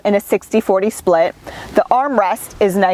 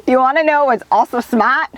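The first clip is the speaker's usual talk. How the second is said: put-on Boston accent; 4 semitones higher than usual. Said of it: "my Boston accent isn't that wicked".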